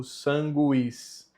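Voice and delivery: "sanguis" slowly as SAN-gwees; sounded U. Shown as a demonstration. Teacher pointing at the U, clearly sounded. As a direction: let the U glide into the I of "sanguis". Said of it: "E aqui no U".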